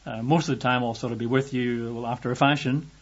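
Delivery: mock half-hearted, noncommittal promise. Preacher parodies God making a vague promise, half-hearted. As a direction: hedge it loosely, with little push. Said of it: "a sort of half-hearted God saying".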